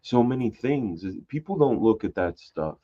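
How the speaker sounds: a light hint of gloomy Eeyore; lightly voiced mopey Eeyore. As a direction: mope through it lightly like Eeyore, barely off your own voice. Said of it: "he talks like Eeyore a little bit".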